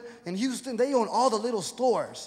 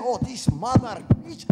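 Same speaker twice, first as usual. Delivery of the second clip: cussing passenger; 5 dB louder, slower than usual. Acted. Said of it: "starts cussing".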